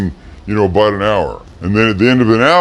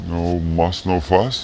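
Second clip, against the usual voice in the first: softer, lower, rising unsure; unsure question; 4 semitones lower, 6 dB quieter, slower than usual. Shown as a demonstration. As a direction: ask it, doubting yourself. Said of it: "It's usually the other way around".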